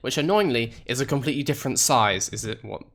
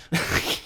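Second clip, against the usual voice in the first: laugh; 5 dB quieter than usual. Real, not acted. Laughs at own accent attempt.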